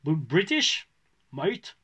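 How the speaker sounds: imitating a strong British accent; mock British English. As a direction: put on a thick English accent. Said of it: "avec un très très fort accent anglais".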